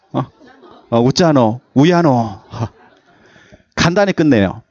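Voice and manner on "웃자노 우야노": short Gyeongsang "우야노"; Gyeongsang dialect. Shown as a demonstration. Pastor showing how Gyeongsang people fret in dialect. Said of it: "경상도 사투리".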